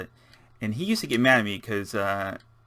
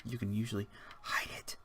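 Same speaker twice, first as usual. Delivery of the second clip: soft, breathy secret aside; whispered like a little secret; conspiratorial whisper; 11 dB quieter than usual. Pretend. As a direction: let the viewers in on a sneaky trick. Sharing a building trick in secret.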